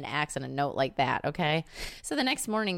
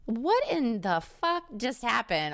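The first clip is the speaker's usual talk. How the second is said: 1 incredulous outburst; 9 semitones higher, slower than usual. Pretend. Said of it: "I'd be like".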